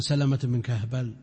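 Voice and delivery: كهبل misread as "Kahbal", with a b; mistaken name reading. Retold or imitated. Teacher quoting an elderly scholar's blunder, mistaken name reading. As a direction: say كهبل as two syllables, "kah-bal". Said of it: "يقرأها سلمة بن كهبل".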